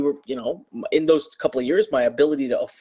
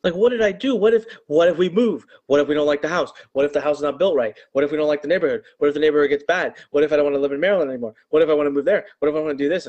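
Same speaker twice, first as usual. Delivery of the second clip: frantic inner worrying, pitched up; retold panic; 3 semitones higher, faster than usual. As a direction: voice jumps higher with rising alarm. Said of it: "I start to panic".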